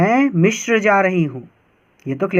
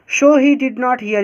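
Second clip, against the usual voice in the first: slow reading; 6 semitones higher, slower than usual. Shown as a demonstration. Teacher reading story line.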